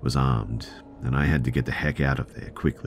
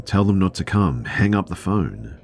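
half-hearted imitation of an angry drunk shouting; mock yell; 6 semitones higher, 4 dB louder than usual. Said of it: "He starts yelling".

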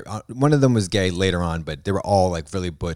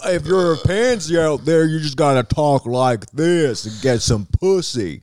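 high, slow, sassy drawl; mock gay voice; 6 semitones higher, 3 dB louder, slower than usual. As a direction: lay it on thick, slow and camp. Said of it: "Gay voice".

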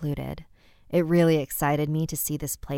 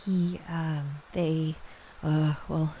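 hesitant; slower than usual. Acted. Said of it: "struggling to form the words".

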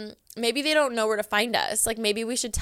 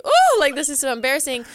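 mock cringe squeal; 4 semitones higher, 6 dB louder than usual. Cringing retold reaction.

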